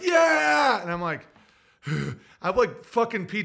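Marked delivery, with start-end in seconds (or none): 0.0-0.8 loud high yelp of joy; excited dog shout. Retold or imitated. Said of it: "And he's like".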